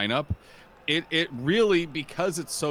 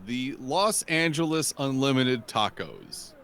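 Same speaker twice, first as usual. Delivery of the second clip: team name spelled out slowly; drawn-out mouthful; slower than usual. Shown as a demonstration. Co-caster sounding out an unwieldy team name, drawn-out. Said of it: "that's a mouthful".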